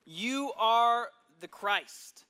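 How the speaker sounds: slow, loud proclamation, each word held; excited declaration. Acted. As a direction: Peter proudly exclaiming the answer. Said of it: "who's excited".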